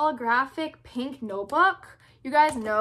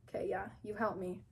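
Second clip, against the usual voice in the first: whisper; 5 semitones lower, 12 dB quieter, faster than usual. Acted. Whispering to toy elf.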